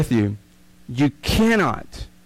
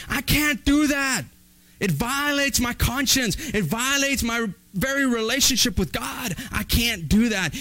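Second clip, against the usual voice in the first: higher-pitched, emphatic principled stand; firm refusal; 4 semitones higher than usual. Acted. Employee refusing a dishonest order from the boss, firm refusal. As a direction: stand your ground, stressing each refusal. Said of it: "look at the boss straight in the eye and say".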